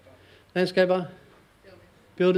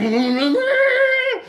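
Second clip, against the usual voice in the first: high mock screech; 4 dB louder than usual.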